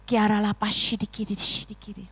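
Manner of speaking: praying in tongues. Real, not acted.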